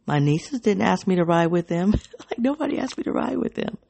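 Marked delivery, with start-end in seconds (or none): 2.3-3.8 rueful laugh. Real, not acted. Laughing at being left out.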